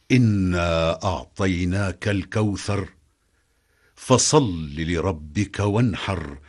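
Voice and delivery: slow, measured recitation; Quran recitation. Acted. Narrator recites the revealed verse in measured recitation. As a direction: intone the verse reverently.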